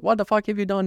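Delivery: high mock scolding, no real shout; retold yelling. Owner scolding the dog for peeing, high retold yell. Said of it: "I'll yell at him".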